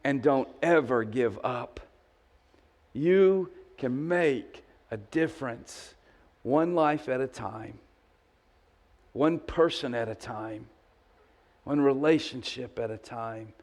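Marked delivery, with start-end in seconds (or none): 2.9-13.5 slow, softening close; slow fading preaching. Acted. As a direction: let each phrase land. Preaching, slowing.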